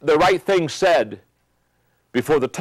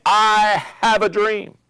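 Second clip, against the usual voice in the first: slow, higher, lightly voiced King; Martin Luther King quote; 7 semitones higher, much slower than usual. Speaker quoting King to show passion, slow higher proclamation. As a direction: stretch it out like a preacher's dream. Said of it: "It's Martin Luther King saying".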